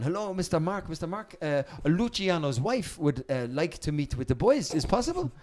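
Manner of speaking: polite, halting request, lifting at the end; hint of a hesitant lady messenger; lightly voiced foreign lady. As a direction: lightly imitate a courteous visitor. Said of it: "some lady there going".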